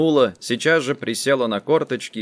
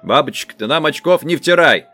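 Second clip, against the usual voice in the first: louder, severe warning; 4 semitones higher, 5 dB louder than usual. Acted. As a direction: stop her nonsense sharply. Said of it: "сурово искривив рот".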